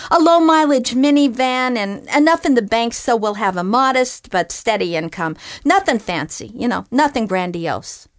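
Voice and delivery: a simple fisherman talking up his wants; eager fisherman. Acted. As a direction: rattle off modest dreams with gusto. Fisherman lists his wishes.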